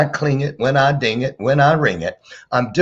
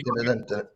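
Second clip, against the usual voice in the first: countdown hum; 8 dB quieter than usual. Retold or imitated. Mimics countdown clock music.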